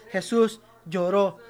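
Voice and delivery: "Jesús lloró" drawn out slowly, each word weighed; slow and deliberate. Shown as a demonstration. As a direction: say it slowly so it sinks in. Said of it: "dígalo". (lento y solemne)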